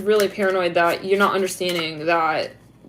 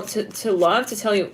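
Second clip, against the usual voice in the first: ordinary talk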